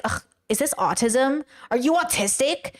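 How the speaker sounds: disgusted "ugh", then a dismissive question; mock ableist disdain; disparaging. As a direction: ask it as a put-down. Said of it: "they are saying it in a bad way".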